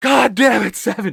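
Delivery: shouted curses in character. Voicing a character cursing another out with a loud voice: loud cursing in character. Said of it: "my voice is loud. I'm just cursing Seven out".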